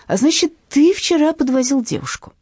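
loud menacing question; interrogating thug. Acted. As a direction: press him hard, high and loud. (угрожающий допрос)

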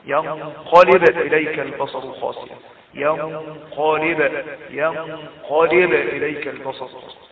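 ينقلب recited with a bouncing ب; qalqalah on ب. Shown as a demonstration. Teacher reciting ينقلب for students, echoing the still ب. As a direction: let the still ب of ينقلب rebound briefly. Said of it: "الباء ساكنة هنا سكون أصلي".

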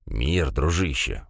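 slow, low, easygoing peace offer; smiling. A narrator's reading. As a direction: smile and soothe him, unhurried. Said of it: "улыбнулся Круг".

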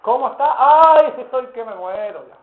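cada "ay" chillado alto y fuerte, el resto lastimero; hermano quejumbroso. Retold or imitated. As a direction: parodia a un hermano que se queja de todo. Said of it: "Me parece escuchar a varios hermanos". (imita a los hermanos quejosos con ayes exagerados)

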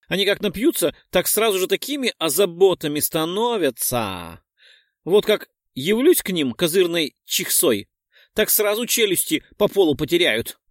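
high cheeky boasting pixie. Acted. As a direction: brag in a squeaky voice. (дерзкая пикси)

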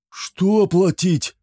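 high, slow confused asking; dazed question. A narrator's reading. Drunk Sher asks what he must pay, dazed. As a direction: ask in drunken bewilderment.

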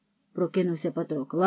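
ordinary delivery, nothing marked

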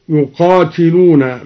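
يقاتلون with an "i" after the ت; kasra on the ta. Shown as a demonstration. Teacher showing al-Duri's reading, يقاتلون with kasra on ت. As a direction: say "yuqātilūna" for يقاتلون. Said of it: "بكسر التاء".

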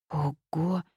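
stretched, wondering exclamation; drawn-out wow. A narrator's reading. Likha, struck by the news about demons, drawn-out wow. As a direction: draw the word out in amazement. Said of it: "протянул Лиха".

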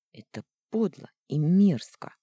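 сквозь зубы, громче; сдержанно цеди слова; процедила. Acted. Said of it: "процедила я". (процеживая сквозь зубы)

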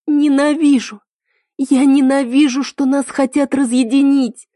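high, loud, raw hatred; a girl screaming while beating his chest; anguished shout. Acted. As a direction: scream the word as you hit him. Sobbing heroine beats his chest.

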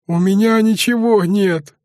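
lightly acted whine; mild sniffling whine; whining. A narrator's reading. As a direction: snivel it like a scared boy. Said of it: "законючил Беглый, хлюпая носом".

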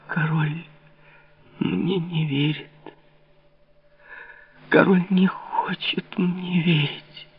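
slow, high, whispered despair. A narrator's reading. Louise, despairing at the king's disbelief, slow whisper. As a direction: breathe it out, crushed. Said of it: "в отчаянии прошептала Лавальер".

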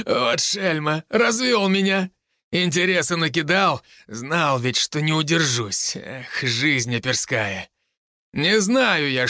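a hint of a laughing old cop; amused major. Major's voiced lines in story.

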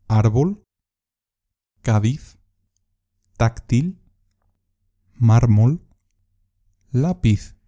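teacher's example list, ÁR-bol to LÁ-piz, first syllable strong, pause between words; stressed syllable examples. Shown as a demonstration. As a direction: stress the first syllable: ÁRbol, CÁdiz, TÁCtil, MÁRmol, LÁpiz. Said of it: "llevan tilde en la sílaba fuerte".

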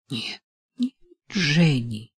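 mild protest, slowing down on the end; mother objecting in a mild exclamation; exclaiming. A narrator's reading. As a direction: plead against it, drawn out. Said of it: "воскликнула мать".

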